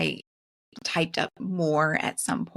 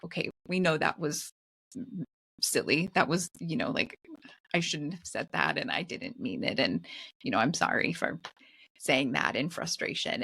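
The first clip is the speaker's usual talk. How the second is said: softer, gentle making-up apology; calm apology; 3 semitones lower, 5 dB quieter than usual. Retold or imitated. Mother retelling apologising to her son afterwards, softly. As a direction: ease back in and say sorry kindly. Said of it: "when everyone has calmed down".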